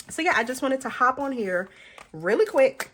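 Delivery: breathing heavily between words; audibly out of breath, heavy breaths. Real, not acted. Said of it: "Sorry for all the heavy breathing".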